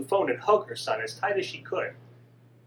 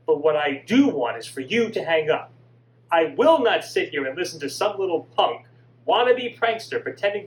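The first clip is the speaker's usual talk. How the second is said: louder, stern dressing-down of a punk; scolding mother; 4 dB louder than usual. Acted. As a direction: tell him off and hang up. Mother scolds the supposed prankster.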